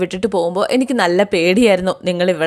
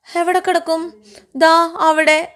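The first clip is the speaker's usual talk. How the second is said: excited question; 10 semitones higher, slower than usual. A narrator's reading. Grandmother and Krishna, bedtime talk.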